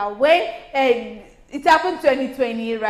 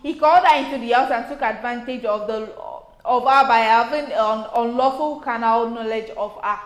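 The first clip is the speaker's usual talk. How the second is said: measured newsreader delivery; news read. Acted. Co-host reading the next story to the panel, news read. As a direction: read out a police report, evenly. Reads the statement aloud.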